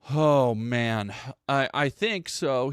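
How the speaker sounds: slow, hesitant, unsure reply; mock the lawyer's halting uncertainty; unconvincing. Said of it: "somewhat unconvincingly".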